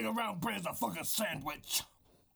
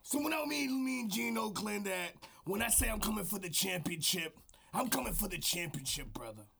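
gruff wrestling trash talk aimed at the skies; over-the-top wrestling promo; wrestler promo voice. Acted. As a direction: hype man cutting a promo. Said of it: "This is my wrestler voice".

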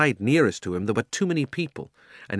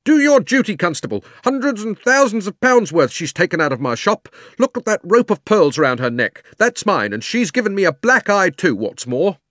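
high, loud, outraged complaint; indignant fat man; 10 semitones higher, 6 dB louder than usual. Acted. Robbed man demanding the constable act, high and indignant. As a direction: protest loudly as the wronged shopkeeper.

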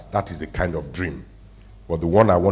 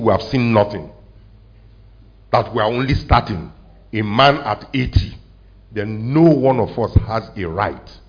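louder, climbing toward the point; rising preacher's shout; 4 dB louder than usual. Real, not acted. Pastor rallying the congregation, rising loud. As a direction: press it home to the church, building.

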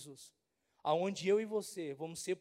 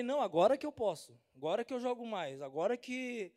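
excited retort. Retold or imitated. Pastor answering doubters, proud and excited. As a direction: proclaim it like a star. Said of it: "Eu falei".

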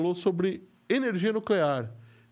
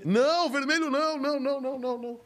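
high playful protest; 9 semitones higher than usual. Acted. Begging to avoid red screen.

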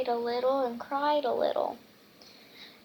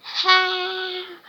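high, loud triumphant "ha"; acted pirate gloat; roared; 7 semitones higher, 6 dB louder than usual. A narrator's reading. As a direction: roar it out as a storybook pirate, long and held. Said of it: "roared Butterbeard".

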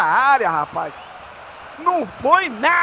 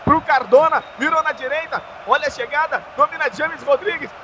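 live play-by-play. Acted.

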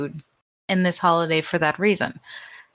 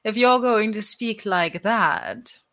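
higher and slow, playing along; co-host joins in with a higher, slower voice; mock higher voice; 4 semitones higher than usual. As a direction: answer the joke with a higher, slower put-on voice. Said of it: "I'm going to talk like this".

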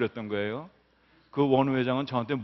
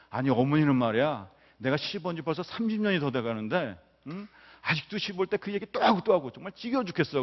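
wife's griping; 3 semitones higher than usual. Retold or imitated. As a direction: imitate a wife fed up with her mother-in-law. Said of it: "시어머니 욕을 하더라는 거예요".

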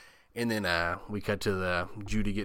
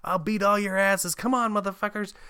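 high-pitched imitated tantrum; hammed-up raging challenge; mock losing it; 11 semitones higher than usual. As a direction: rant like a kid taking on everyone. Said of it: "he just loses his shit".

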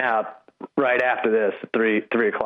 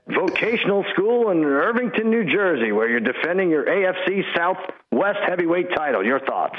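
higher, pumped wrestling interviewer voice; Vince McMahon; 5 semitones higher than usual. Pretend. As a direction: hype it like a wrestling promo. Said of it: "you don't let Vince McMahon down like that. He's trying to interview you".

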